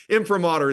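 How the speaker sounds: Imprimatur said as im-pruh-MAH-ter; supposedly correct pronunciation. Shown as a demonstration. Guest concedes to host, Imprimatur as im-pruh-MAH-ter. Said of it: "the correct pronunciation".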